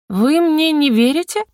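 high, slow tipsy indignation; protest, offended that they ignore you; indignant. A narrator's reading. Drunk heroine protests to the girls that they don't believe her, indignant and high. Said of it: "возмутилась я".

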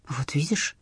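soft breathy whisper. Acted. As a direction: whisper so nobody hears. Hushed in quiet flat.

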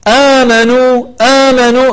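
آمنوا with the first a held two beats; badal elongation. Shown as a demonstration. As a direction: stretch the آ in آمنوا two counts. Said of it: "فنقول". (مد البدل بمقدار حركتين في آمنوا)

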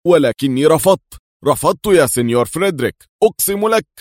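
loud, high, rushed protest; pleading shout of denial; exclaiming. A narrator's reading. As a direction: cry out that you refused, swearing it. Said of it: "وهو يهتف".

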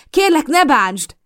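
high, loud, slow plea; slow, high desperate begging. A narrator's reading. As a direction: beg him to stop. Begging Mason to stop hitting.

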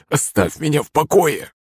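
high, strained, thin-voiced outburst; blurted plea. A narrator's reading. Beaten guard pleading with his attacker, blurted and strained. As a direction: beg to be left alone with a strangled voice. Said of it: "выпалил он".

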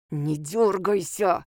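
slow words pushed through clenched teeth; through gritted teeth. Acted. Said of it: "сквозь зубы проговорил Кессель".

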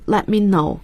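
"let me know" with the T in "let" unpronounced; silent T. Shown as a demonstration. Teacher showing listeners the expression "let me know", silent T in "let". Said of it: "T是不发音的".

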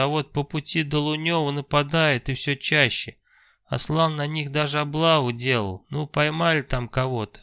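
a lightly voiced chatty merchant who burrs his r; burring shopkeeper voice. Fima talks with a burr.

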